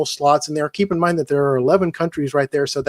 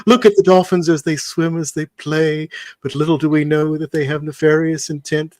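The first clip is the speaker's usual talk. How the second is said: Attenborough impression. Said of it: "a little bit more of the Attenborough".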